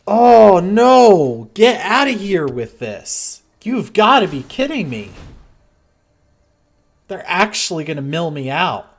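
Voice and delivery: can't believe this is happening; angry disbelief. Real, not acted. Opponent mills him out.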